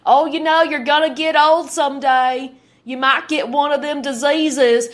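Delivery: exaggerated rural hick accent. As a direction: imitate a fearmongering country hick. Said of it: "they totally talked like Hicks with this".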